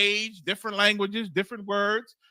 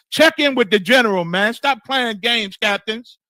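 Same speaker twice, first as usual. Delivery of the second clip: scolding shout; 3 semitones higher, 6 dB louder than usual. Real, not acted. Preacher scolding the captains.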